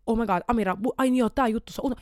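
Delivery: korkeampi, vähän kovempi hätääntynyt muistutus itselle; esitä pään sisäinen hälytys; huutava sisäinen ääni. Acted. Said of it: "huutavia ääniä". (huutava ääni pään sisällä)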